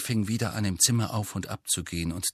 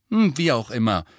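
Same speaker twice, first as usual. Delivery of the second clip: brisk, louder and higher brush-off; cheerful; 4 semitones higher, 6 dB louder than usual. A narrator's reading. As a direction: wave it away cheerfully. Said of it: "sagte sie munter". (munter, unbekümmert)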